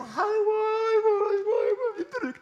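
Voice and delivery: high, whiny mock crying groan; mock wailing. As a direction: wail it like a whining complainer. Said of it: "칭얼대고 우는". (높고 칭얼대는 흉내 울음)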